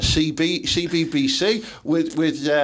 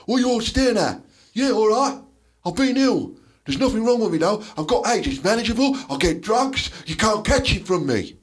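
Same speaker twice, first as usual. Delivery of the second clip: acted pub speech; 5 semitones higher than usual. Reenacting a soap character defying a staring pub, defiant. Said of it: "Something like that".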